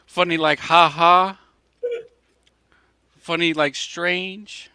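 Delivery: loud, high, confrontational mobster questioning; Joe Pesci. Acted. Guest quoting Goodfellas at the host, loud, high mock-menacing challenge. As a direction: challenge each word like an insulted gangster. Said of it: "Remember Goodfellas? Joe Pesci?".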